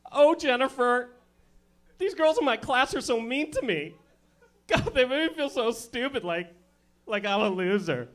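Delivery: put-on high, slow, whiny valley-girl voice; whiny girl on phone. Girl calling her best friend, high slow whine. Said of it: "call one of your friends, and be like".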